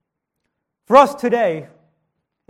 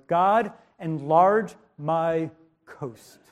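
measured prayer; 4 semitones lower, 3 dB quieter, much slower than usual. Acted. Preacher voices Jabez's solemn prayer.

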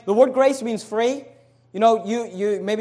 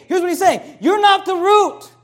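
preaching emphasis; 9 semitones higher, 4 dB louder than usual. Acted. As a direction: hammer the point home to the pews. Preacher driving the point home.

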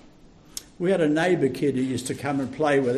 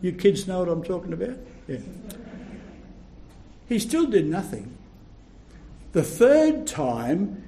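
ordinary delivery

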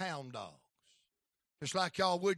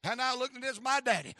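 usual speaking voice

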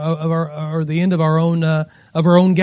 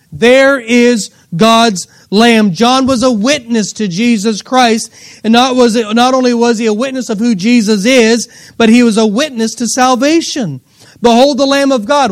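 emphatic, raised pulpit delivery; impassioned preaching; 4 semitones higher, 5 dB louder than usual. Acted. Preacher proclaiming John's witness to salvation, emphatic preaching. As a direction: proclaim it to the whole congregation.

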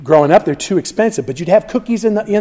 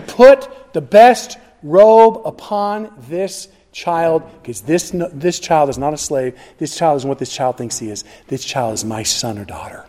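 father's proclamation. Acted. God voiced as the father.

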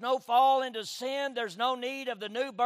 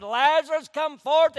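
loud, higher summons to a dead man; booming "Lazarus, come forth" raised high; commanding call; 5 semitones higher, 9 dB louder than usual. Retold or imitated. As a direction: call him out of the tomb with full voice. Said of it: "he said".

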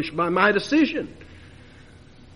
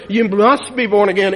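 loud proclamation; 5 dB louder than usual. Real, not acted. Preacher booming the text at his congregation, loud. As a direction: proclaim "You must be born again" loud and forceful.

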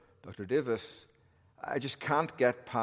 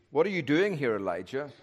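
God's question, raised pitch falling away on the name; 2 semitones higher than usual. Shown as a demonstration. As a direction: ask it pointedly, then drop on the name. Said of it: "what tone of voice does God use?".

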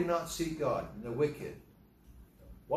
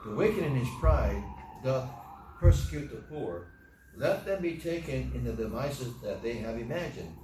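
impassioned recitation of the psalm; scripture reading. Acted. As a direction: read it like a lament cried to God. Reads Psalm aloud with fervour.

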